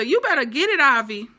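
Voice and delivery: high loud hype; cheering. Real, not acted. Viewer hyping Avi's sister, high loud cheer. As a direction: cheer him on.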